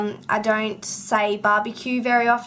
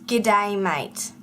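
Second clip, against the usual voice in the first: broad Aussie greeting; 2 semitones lower than usual. Shown as a demonstration. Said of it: "controversial topic".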